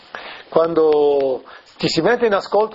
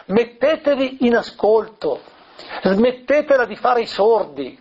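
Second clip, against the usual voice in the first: higher, insistent urging, a mild cry; Gesù; 5 semitones higher than usual. Retold or imitated. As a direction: press the plea home without shouting. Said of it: "gridava forte". (esortazione insistente, a voce più alta di tono)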